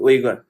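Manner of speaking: Uyghur said as "OY-gur"; pronunciation practice. Shown as a demonstration. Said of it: "So it is pronounced as Uyghur".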